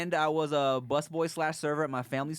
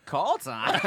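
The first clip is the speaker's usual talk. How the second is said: laughing shout; 4 dB louder than usual. Retold or imitated. Reading shocking email, laughing.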